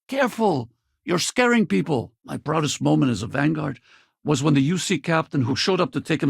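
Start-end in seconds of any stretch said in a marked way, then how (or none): 0.1-2.1 higher-pitched warning; raised, scolding warning; urgent caution. Acted. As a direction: call out to rein someone in. Warning someone off.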